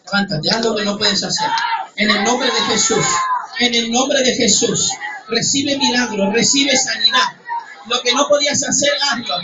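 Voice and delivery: ringing preacher's commands, driven hard; preaching at full force. Acted. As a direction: pour healing over the congregation. Ministra sanidad a la iglesia. (predicación ferviente a viva voz)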